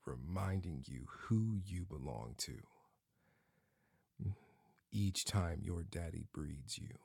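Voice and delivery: unvoiced intimate whisper. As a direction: drop to a whisper. Intimate whisper mid-roleplay.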